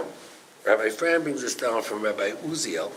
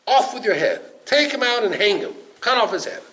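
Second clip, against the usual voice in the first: loud, high-pitched royal fury; acted angry shout of command; enraged king screaming; 7 semitones higher, 6 dB louder than usual. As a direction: bellow the orders like a furious king. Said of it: "he screams at him and says".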